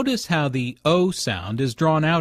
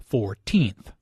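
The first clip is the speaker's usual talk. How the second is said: put-on "fourteenth" split carefully, weight on teenth; second-syllable stress; 4 semitones lower than usual. Shown as a demonstration. Comparing with fortieth, "fourteenth" stressed on teenth. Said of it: "The stress is on the second syllable".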